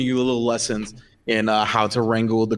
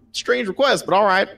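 high, put-on young wizard voice; bemused high apprentice; 9 semitones higher than usual. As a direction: squeak it out like a puzzled apprentice.

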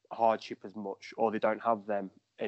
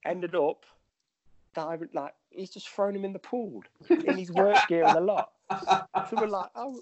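laughing through the story, pitch well up; real giggling as he tells it; 9 semitones higher than usual. Real, not acted. To the hosts about the pool throw, laughing.

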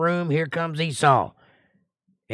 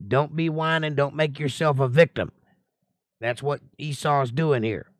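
ordinary talk

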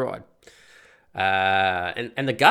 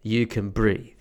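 retold firm instruction; 4 dB louder, slower than usual. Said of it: "and I say".

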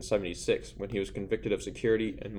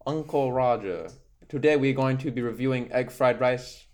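Uncle Roger voice; 3 semitones higher, 5 dB louder than usual. Retold or imitated. Doing Uncle Roger impression.

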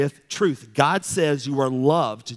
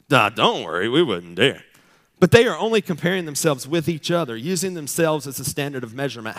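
louder, sarcastic brush-off; sarcastic Paul; 3 dB louder than usual. Retold or imitated. Preacher voicing Paul's sarcastic reply to his critics. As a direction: toss it off with mock modesty. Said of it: "Don't you love sarcastic Paul?".

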